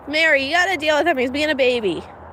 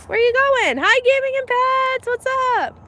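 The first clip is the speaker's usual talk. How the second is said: pet voice; 12 semitones higher than usual. Real, not acted. Greeting animal, high pet voice.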